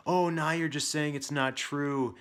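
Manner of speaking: high, loud, slow whiny retort; mock arguing kid. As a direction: imitate a child arguing back. Parent mimics son arguing back.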